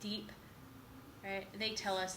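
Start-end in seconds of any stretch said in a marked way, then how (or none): 0.0-0.3 deep and low, softly; demonstrating a deep tone. Shown as a demonstration. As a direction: drop "deep" down low and quiet. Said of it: "you can say things deep".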